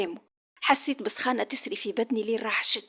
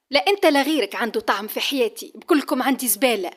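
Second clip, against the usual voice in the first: louder, contemptuous retort; angry retort; 4 dB louder than usual. Acted. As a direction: spit the insult at him. She shoves him away. (رد بغضب واحتقار)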